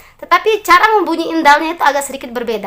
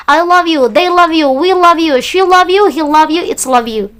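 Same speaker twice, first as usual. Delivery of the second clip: pronoun drill; 2 semitones higher, slower than usual. Shown as a demonstration. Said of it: "So you can say once more".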